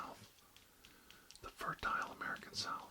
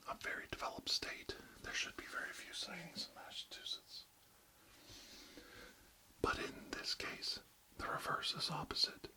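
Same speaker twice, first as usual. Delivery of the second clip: ASMR whisper, close to the mic; barely audible, intimate whisper; 5 semitones higher than usual. Acted. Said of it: "real close to inaudible whispers today".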